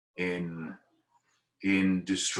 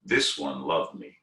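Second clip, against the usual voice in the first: put-on low, gentle Jewish accent on the god's words; 6 semitones lower than usual. Shiva lifting the devotee's body, in a lightly done Jewish accent. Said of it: "in a very Jewish accent".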